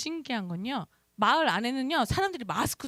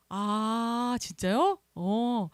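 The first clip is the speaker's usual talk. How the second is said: acting out a surprised phone reply; a drawn-out, raised "oh, really?" reaction; retold surprise; 2 semitones higher, 4 dB louder, much slower than usual. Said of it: "전화 받고 깜짝 놀랐어".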